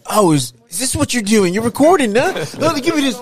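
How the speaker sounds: loud, pitch climbing steeply as it builds; acted indignant outburst. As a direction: act out catching someone secretly recording. Acts out catching her secretly recording.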